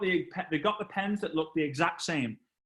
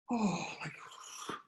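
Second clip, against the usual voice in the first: mock despair; 11 dB quieter, much slower than usual. Retold despair after panic.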